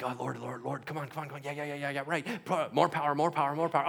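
hurried, repetitive mock prayer under the breath, building; mock frantic praying. Preacher mimics someone praying hard for somebody, mock frantic. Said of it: "you're gonna go pray for somebody".

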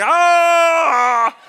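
forced shout. Retold or imitated. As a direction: force out a loud cry. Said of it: "I'm like".

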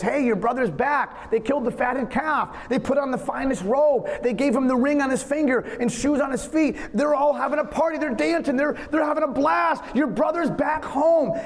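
servant bursting with the news, rising to a shout; breathless, climbing announcement of the party; excited servant. Acted. Servant tells the older brother: excited, climbing shout. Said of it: "A servant comes to him and says".

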